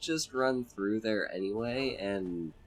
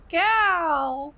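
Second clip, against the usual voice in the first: loud, high dragon roar of a word; dragon shout; 9 dB louder than usual. Retold or imitated. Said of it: "Alduin be like".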